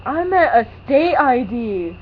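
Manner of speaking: slow, mumbled mock voice; slow slurred imitation of him; mock mumbling man. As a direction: slur it like the confused man. Man's garbled reply imitated.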